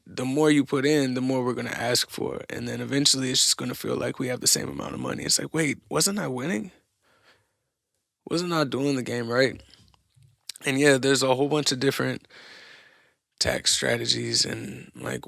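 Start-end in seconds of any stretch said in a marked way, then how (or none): 5.5-9.6 puzzled winner's protest, pitched up at first; mock bewilderment. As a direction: question it like a baffled, wronged player. Acts the puzzled winning player.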